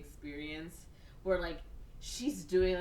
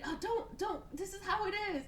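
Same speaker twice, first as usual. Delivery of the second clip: laughing. Retold or imitated. Sister insists, laughing.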